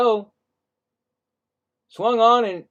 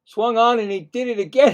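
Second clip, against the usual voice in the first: excited call; 6 semitones higher, 6 dB louder than usual. Real, not acted. Second foul ball call.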